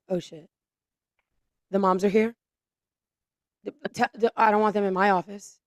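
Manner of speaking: mock-nervous stammer on sentence starts; flustered dread, imitated. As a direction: imitate a rattled official stumbling over words. Voicing congressmen dreading the moms.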